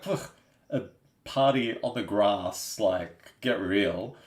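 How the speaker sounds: retold dismissive scoff, lightly played. Retelling a first reaction to mum's party idea, mildly scoffing. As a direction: open with a puff of disbelief, then mildly dismiss it. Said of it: "I scoffed at her".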